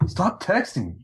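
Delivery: high, slow mock plea through laughter; squealed laughing stop; laughing protest. Real, not acted. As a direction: beg him to stop texting while cracking up.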